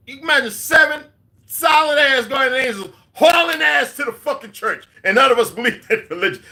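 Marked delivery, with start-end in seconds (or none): 1.5-4.9 loud, high, slow panicked yell; hammed-up panic while retelling the escape; excited shout. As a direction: shout it like you're fleeing for your life.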